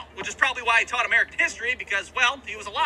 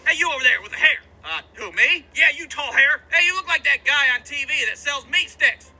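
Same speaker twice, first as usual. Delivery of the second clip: calling out; 3 semitones higher, 4 dB louder than usual. Retold or imitated. Teacher calling on student.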